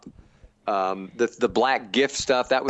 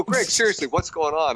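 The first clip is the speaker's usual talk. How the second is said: higher, incredulous outburst; flipping out; 4 semitones higher than usual. Retold or imitated. Complaining to the director about the space set, incredulous. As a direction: throw the question up in disbelief. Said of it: "I just was flipping out".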